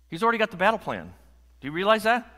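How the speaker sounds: high, loud, building to a peak; rally the congregation with rising force; rousing preaching. Real, not acted.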